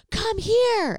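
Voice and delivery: high, loud, sharp order; bossing his sister back; imitating an angry brother; angry command. Angry brother voiced in story.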